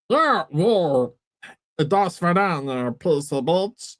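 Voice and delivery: attempted Eastern European accent in a cartoon voice; Meatwad. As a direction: try a squashed, badly faked Eastern European accent. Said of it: "Eastern European foreign sounding meat wad".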